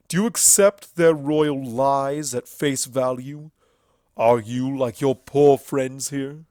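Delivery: loud, coaxing Everfree voice; genuine smile. A narrator's reading. Everfree coaxing Twilight away from her friends. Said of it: "as his smile became genuine".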